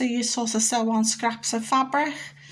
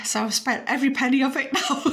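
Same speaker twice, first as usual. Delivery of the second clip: laughing; 2 semitones higher, faster than usual. Real, not acted. Laughing about spending it all.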